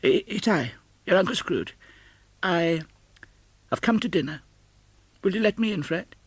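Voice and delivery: put-on high, stammering old man; humble, hopeful request; hesitant Scrooge. Scrooge humbly asking his nephew to let him in.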